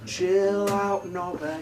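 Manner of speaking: weary, understated put-down, dropping away; tired mother. Acted. Mary to paranoid Joseph, wearily dismissive. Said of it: "looked at him in that tired way that mothers do".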